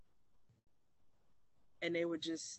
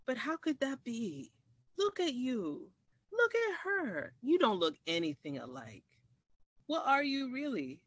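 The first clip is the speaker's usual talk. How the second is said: incredulous professor; 7 semitones higher than usual. Retold or imitated. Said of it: "And so she said".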